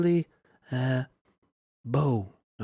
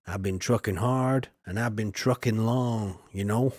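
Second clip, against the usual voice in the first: trucker voice; 2 semitones lower than usual. Acted. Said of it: "That's my trucker's voice".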